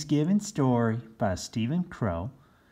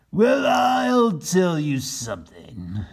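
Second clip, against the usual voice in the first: slow, loud indignant shout; 9 semitones higher, 9 dB louder, slower than usual. Acted. Captain Bill shouting at his men about the turkeys. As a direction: bellow in outrage. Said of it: "said Captain Bill".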